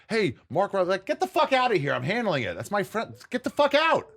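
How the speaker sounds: high, loud angry yell telling someone to get out; angry shout. Retold or imitated. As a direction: bark at them to back off, protecting a friend. Friend yells to back off.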